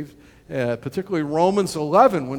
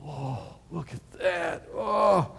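hushed awe; 4 dB quieter, slower than usual. Retold or imitated.

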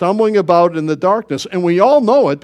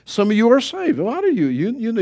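ordinary delivery

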